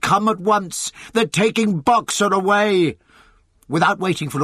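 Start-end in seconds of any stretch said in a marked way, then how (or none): 0.0-3.0 high, urgent cry; Benjamin's alarmed shout. A narrator's reading. Donkey warning the animals Boxer is being taken, alarmed shout. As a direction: call for help, pitch held high. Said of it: "he shouted".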